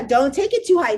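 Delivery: ordinary talk, nothing marked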